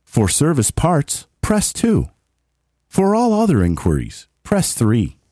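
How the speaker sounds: calm automated phone prompt; phone menu voice. Shown as a demonstration. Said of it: "I did some voice, uh, prompts for work".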